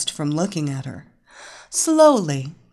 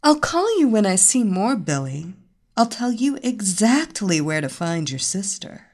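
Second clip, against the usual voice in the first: taunting. Acted. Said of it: "taunting sort of way".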